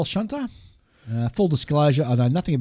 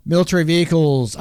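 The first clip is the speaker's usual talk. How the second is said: announcer; 4 semitones higher, 5 dB louder, faster than usual. Acted. Section heading read out.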